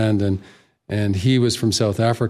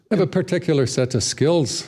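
Liam Neeson-style Irish brogue, higher pitch; Irish accent; 5 semitones higher than usual. Shown as a demonstration. Guest quoting a film line for the host, Irish accent. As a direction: say it as an Irish action hero. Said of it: "can you speak with an Irish accent".

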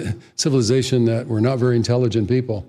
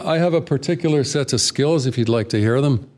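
rolling Irish brogue; movie line in an Irish lilt; Irish accent; 3 semitones higher than usual. Shown as a demonstration. Guest repeating the film line on request, Irish accent. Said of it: "Can you do it again?".

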